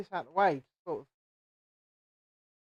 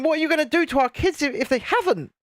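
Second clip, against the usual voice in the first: mock indignant parent; 5 semitones higher, faster than usual. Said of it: "I was thinking".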